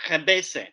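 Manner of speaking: khebeze with a throaty Arabic kh, said as "xebese"; Arabic pronunciation. Shown as a demonstration. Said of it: "sorry about my accent".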